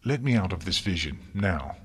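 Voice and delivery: a furious command to end the vision; angry demand. Acted. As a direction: order it, no patience. Twilight demands release.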